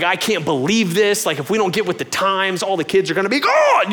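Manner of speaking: worked-up venting, rising toward the end; retold rant. Venting to wife after work, worked-up rant. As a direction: rant about it, building as you go. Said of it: "I would rant and rail and vent".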